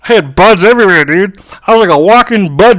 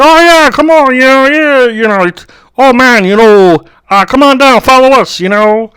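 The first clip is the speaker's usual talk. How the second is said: put-on higher-pitched botched Jamaican accent; failed Jamaican accent; 6 semitones higher than usual. Jamaicans coaxing a tourist to follow them, failed Jamaican accent. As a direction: attempt a Jamaican accent and miss. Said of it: "I can't do a Jamaican accent".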